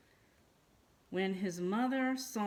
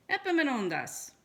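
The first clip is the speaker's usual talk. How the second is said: smiling; 7 semitones higher, 6 dB louder than usual. A narrator's reading. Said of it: "she smiled".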